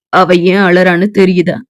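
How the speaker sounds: put-on low, calm young man; Arjun's voice.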